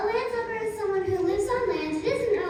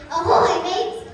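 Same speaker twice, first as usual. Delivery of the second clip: pirate greeting; 8 dB louder, slower than usual. Shown as a demonstration. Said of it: "You say".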